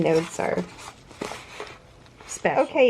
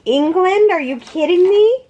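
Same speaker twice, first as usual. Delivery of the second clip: high, loud, real astonishment; thrilled disbelief; 9 semitones higher, 4 dB louder than usual. Real, not acted. Crafter seeing a parcel came from England, thrilled disbelief. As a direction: exclaim it high, rising into a disbelieving question.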